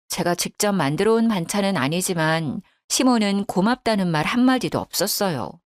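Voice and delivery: ordinary delivery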